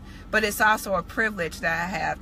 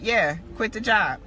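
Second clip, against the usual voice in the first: matter-of-fact answer, lightly voiced; retold confirmation. God confirming the order to quit, matter-of-fact retold reply. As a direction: confirm it simply, as a settled instruction. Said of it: "it was just like".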